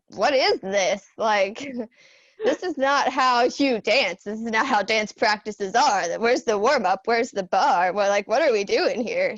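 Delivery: retold haughty attitude. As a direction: re-enact a serious dancer scoffing at amateurs. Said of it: "had that Emmy attitude at first".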